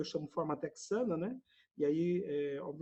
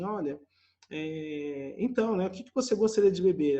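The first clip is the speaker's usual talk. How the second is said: fast, louder, eager host; 7 dB louder than usual. Retold or imitated. Eager dinner host rushes to ask his guest, fast and loud. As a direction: rush the polite question, keen. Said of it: "fala assim".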